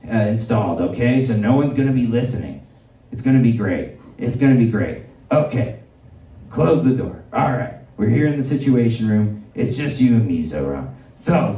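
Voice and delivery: a lightly done Trump welcoming the mayor; lightly voiced Trump. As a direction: play the president greeting a guest, low-key. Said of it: "playing the part of the potential pedophile protector".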